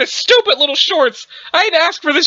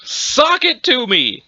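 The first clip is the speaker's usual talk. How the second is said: put-on old man exclamation; much slower than usual. Cornball exclamation by the grandpa.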